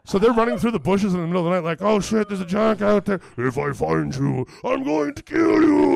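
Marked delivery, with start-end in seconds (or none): 1.8-3.2 loud, high, panicked cry; hammed-up alarm; mock panic. Fleeing guys panic in bushes. 3.4-5.9 huge, slow shouted threat; drawn-out giant's bellow; retold roaring threat. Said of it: "it's so loud and it's so roaring".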